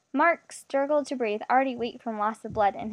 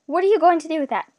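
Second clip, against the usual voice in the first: fast, high, loud frightened question; trembling; 6 semitones higher, 7 dB louder, faster than usual. A narrator's reading. Captive eyeing her captor's pistol, trembling. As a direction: ask in rising alarm. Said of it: "Miss asked, trembling".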